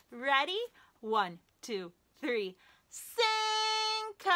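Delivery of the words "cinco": high singsong call for the puppet. Real, not acted. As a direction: sing his name out, higher. Calling the puppet after counting.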